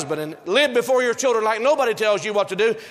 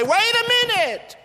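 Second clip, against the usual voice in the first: much higher, slow, drawn-out stop; firm father; 14 semitones higher, slower than usual. Pretend. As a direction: hold the family back, drawn out high. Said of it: "Daddy has to put his foot down and say".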